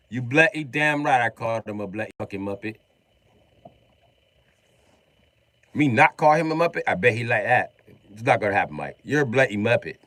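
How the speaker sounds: lightly British bluster; a hint of British anger; mock British. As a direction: put on a British rant.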